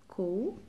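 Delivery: "co" with a hard K sound. Shown as a demonstration. Teacher sounding out C with O for pupils, hard "co". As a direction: say "co" as one syllable, hard C. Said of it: "se prononce".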